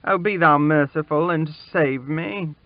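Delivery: put-on high, pleading boy begging for mercy; stammered plea. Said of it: "he made shift to stammer out".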